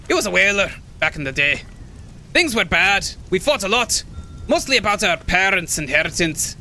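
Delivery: put-on old hermit in wobbly Scottish; rough, put-on Scottish; bad Scottish accent. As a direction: recount a family feud in an amateur Scottish accent. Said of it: "I can't do the Scottish accent".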